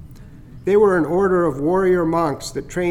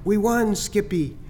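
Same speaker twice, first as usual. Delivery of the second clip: Nod remembered; 5 semitones higher, slower than usual. Retold or imitated. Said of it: "the voice of Nod faintly".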